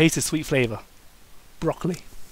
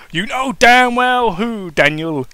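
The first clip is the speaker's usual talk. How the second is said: slow, pointed retort leaning on damn; a touch of a sharp lover's retort; mild snap; 5 semitones higher, slower than usual. Acted. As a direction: snap it back, drawing it out. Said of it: "Kane snapped".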